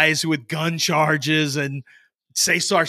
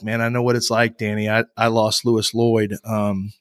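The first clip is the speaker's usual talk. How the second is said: lower, gently wise fatherly voice; a hint of the consoling dad, pitched down; sage father; 4 semitones lower than usual. Comforting the heartbroken roommate like a sage father, lower and gentle. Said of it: "like some sage father".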